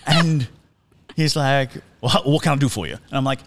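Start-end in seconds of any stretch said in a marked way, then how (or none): 2.0-2.9 lightly imitated Southern accent; a hint of cartoonish Southern host. Butler-like host greeting a visitor at the door, light Southern accent. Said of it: "this amazing Southern accent".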